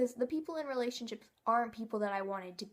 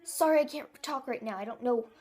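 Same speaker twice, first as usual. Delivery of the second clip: throat caught from swallowed dust; talking through a dust cough; 6 dB louder than usual. Real, not acted. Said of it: "I think I just swallowed dust".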